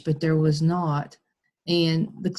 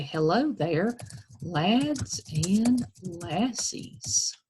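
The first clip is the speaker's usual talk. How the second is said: put-on slow, stretched Irish greeting to children; lightly Irish, drawing out "lassies" very slowly; Irish accent; much slower than usual. Shown as a demonstration. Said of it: "from Ireland ... they would say".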